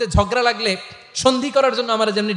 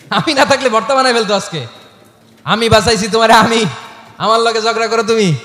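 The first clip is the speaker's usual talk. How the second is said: playful teasing; 3 semitones higher, 5 dB louder than usual. Acted. Prophet teasing Aisha in story.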